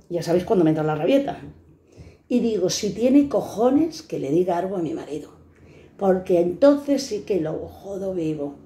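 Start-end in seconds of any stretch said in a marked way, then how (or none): 2.7-8.6 tantrum. Retold or imitated. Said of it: "me entró la rabieta".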